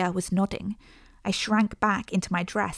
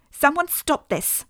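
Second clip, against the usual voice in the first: a slow, high, louder mock screech; 8 semitones higher, 4 dB louder, slower than usual. A narrator's reading. Mother screeches as Eliza holds Joan's hand. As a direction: draw out a shrill cry for help. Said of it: "my mother screeched".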